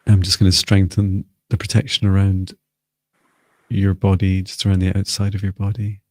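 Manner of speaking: measured, even-pitched guided meditation voice; guided invocation. Real, not acted. Healer calling in light and protection for the group, guided invocation. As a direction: lead them steadily through it, pausing between phrases.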